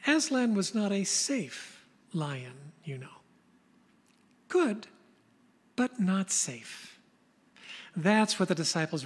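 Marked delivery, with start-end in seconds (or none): 0.1-7.0 slow, weighty quote; quoting Lewis slowly. Retold or imitated. Preacher quoting C S Lewis on Aslan, slow and weighty. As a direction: let each phrase land with pauses. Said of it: "Lewis was fond of saying".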